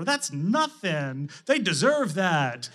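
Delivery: slow, drawn-out mock protest; imitated dismissive kids. Older kids defending dad, lightly mimicked dismissiveness. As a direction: lightly mimic kids waving it off, stretching the key words.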